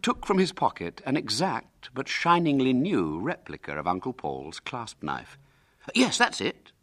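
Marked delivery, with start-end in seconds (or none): 5.9-6.7 put-on high, eager boy. William seeing Hubert's new knife, eagerly. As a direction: pipe up keenly in a high voice. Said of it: "said William eagerly".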